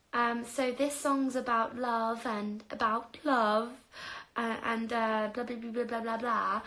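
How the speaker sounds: mock posh voice. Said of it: "Not my voice, you know".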